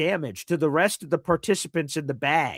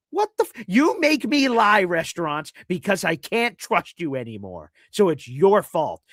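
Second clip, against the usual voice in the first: high, louder exasperated outburst; hammed-up indignant rant at restaurants; mock rant; 4 semitones higher, 4 dB louder than usual. Real, not acted. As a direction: scold the restaurants in mock outrage. Ranting at restaurants.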